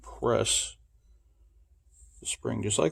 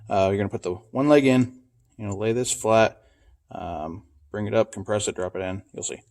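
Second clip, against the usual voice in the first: flashlight in mouth; 2 semitones lower, 4 dB louder than usual. Real, not acted. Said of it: "I got the flashlight in my mouth".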